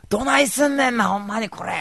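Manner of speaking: very high giddy Kansai squeal; bursting with glee in Kansai; giddy hammed-up Kansai; excited Kansai. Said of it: "って言うわけ".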